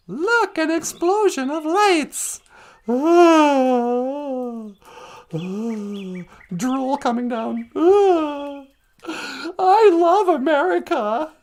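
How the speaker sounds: hammed-up sighs of awe, then a fake tearful swell; mock a drooling fan of the fireworks; mock awed patriot.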